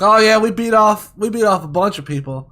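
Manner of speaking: cheerful bragging boast; mock boastful brag. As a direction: brag it proudly to a stranger. Retold own brag to guildie.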